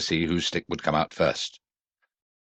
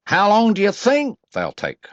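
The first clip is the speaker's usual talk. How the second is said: put-on high, louder child's question; Roo's voice; 5 dB louder than usual. A narrator's reading. Roo asking Rabbit, high eager voice. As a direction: ask eagerly like a small child. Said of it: "asked Roo".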